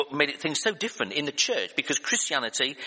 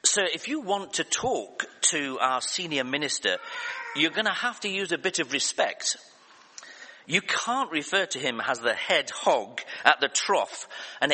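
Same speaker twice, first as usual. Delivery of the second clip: mildly indignant secretary, retold; a bit indignant. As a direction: imitate a firm, affronted telling-off. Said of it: "she gets a bit indignant".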